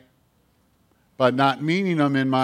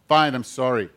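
insincere apology. Acted. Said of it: "That doesn't sound like".

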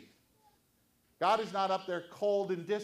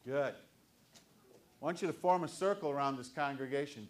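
ordinary delivery

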